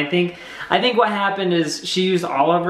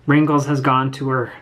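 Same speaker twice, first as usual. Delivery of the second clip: lower, voice catching, breaks off mid-sentence; can't finish the line for grief; choked up; 4 semitones lower than usual. Real, not acted. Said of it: "I'll get emotional".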